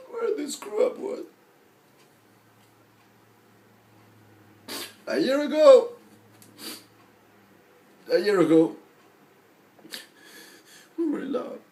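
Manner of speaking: high, pained voice with long pauses; anguished heartbreak. Acted. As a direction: choke out the breakup, voice rising. Anguished over the breakup.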